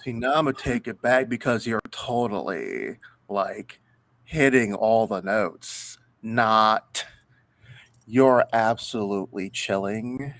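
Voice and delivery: put-on Valley Girl voice. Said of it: "with the rapper's Valley Girl voice".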